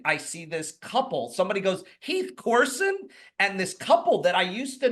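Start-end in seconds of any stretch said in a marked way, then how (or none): 2.0-3.0 high-pitched questioning call; an imitated surprised hail, pitched well up; calling out in recognition. An old acquaintance spotting him across the street, calling out in recognition.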